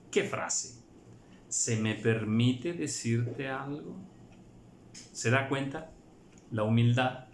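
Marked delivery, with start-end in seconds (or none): 1.5-4.0 pregunta lenta y respetuosa; humilde. Shown as a demonstration. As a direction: suplicarlo con reverencia. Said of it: "lo está suplicando". (pausado, pidiendo de favor)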